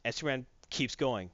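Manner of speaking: normal talking voice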